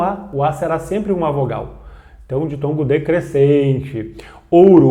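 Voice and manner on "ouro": "Ouro" with a clear O; "Ouro" stressed on its O; ouro with O sound. Shown as a demonstration. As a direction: say "Ouro" opening on a full O. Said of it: "O com som de O".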